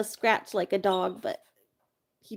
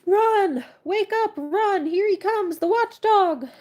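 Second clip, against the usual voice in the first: high, loud panicked yelling; frantic shouts; 11 semitones higher, 6 dB louder, slower than usual. Acted. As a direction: scream a warning to everyone. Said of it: "Great shouts filled the air".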